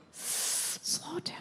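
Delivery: unvoiced whispered "Slow down"; imitating mom's whisper. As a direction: hiss it from the passenger seat. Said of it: "she whispers everything about my driving".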